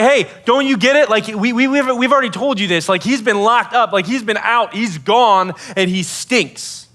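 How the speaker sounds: exasperated protest. Acted. Mourners telling Jesus he has been dead too long, exasperated. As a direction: protest as if nobody is listening.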